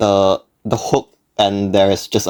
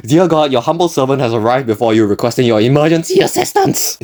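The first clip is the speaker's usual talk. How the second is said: higher-pitched, pleading mock prayer; 4 semitones higher than usual. Narrator begs God for rescue from small talk, mock prayer. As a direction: recite a formal plea, climbing at the end.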